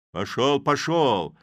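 loud "Пошёл, пошёл!", the second falling; shout. A narrator's reading. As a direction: slam the door on him with a yell. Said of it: "закричал кузнец".

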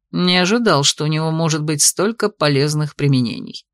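a lightly voiced mocking dragon; dragon's low voice.

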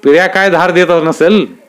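amused, pleased. A narrator's reading. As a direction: chuckle it out, patronising. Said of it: "खुशीत आलेल्या मंडलिक साहेबांनी".

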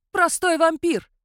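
"Простой вампир!" screeched high and loud, falling; shrieking king. A narrator's reading. The king sneers at Sandru with a loud high shriek. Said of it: "завизжал король".

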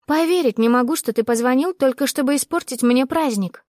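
angry and disbelieving. Acted. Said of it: "чувствуя, как закипаю от злости".

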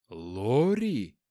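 astonished. Acted. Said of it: "изумился инспектор".

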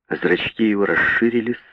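usual speaking voice

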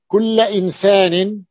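كل stressed and drawn out, rising on إنسان; emphatic demo. Shown as a demonstration. Teacher shows students how كل is said before a noun, slow and stressed. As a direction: slowly lean on كل in كل إنسان. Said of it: "يعني عندما تقول".

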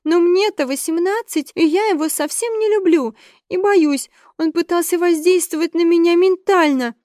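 put-on a frightened eighteen-year-old protesting; young Vanessa. A narrator's reading. Narrator voices young Vanessa.

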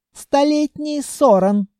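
high, slow proud naming; proud announcement. A narrator's reading. Captain Sol proudly naming her ship to the hero. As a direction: announce the ship's name with pride. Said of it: "с гордостью объявила девушка".

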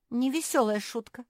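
high, loud squeal. A narrator's reading. Marsia objecting to Malum's prank, squealing. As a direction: squeal in protest. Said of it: "взвизгнула Марси и чихнула".

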